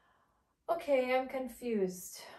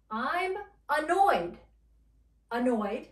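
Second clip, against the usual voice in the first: acted annoyance; 3 semitones higher, 5 dB louder than usual. Shown as a demonstration. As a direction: stretch annoyed in exasperation. Acting out the word annoyed.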